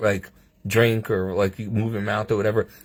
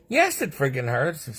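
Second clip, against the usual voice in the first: exasperated retort; 4 semitones higher than usual. Retold or imitated. Acts out pained retort to doctors.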